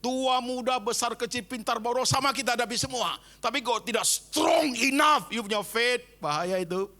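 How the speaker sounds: rising, building to a shout; preaching build. Real, not acted. Preacher challenging weak faith, building to a shout. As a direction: press them harder until you shout.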